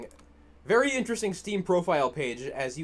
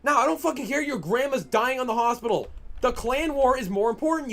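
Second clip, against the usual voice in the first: heated, louder mockery; angry sarcasm; 7 semitones higher, 5 dB louder than usual. Real, not acted. Streamer mocking the teammate's excuse, angry sarcasm. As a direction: sneer it out raised.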